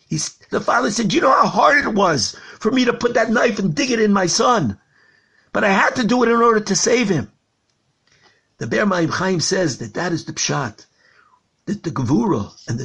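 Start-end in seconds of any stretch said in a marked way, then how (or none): 1.1-7.3 anguished outcry. Acted. Father explains his painful act.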